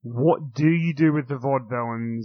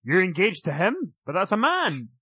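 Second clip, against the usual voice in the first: lightly played bewilderment, higher pitch; mock disbelief, raised voice; baffled old-timer; 4 semitones higher than usual. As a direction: play someone innocently scandalized. Joins in as baffled Bob Backlund.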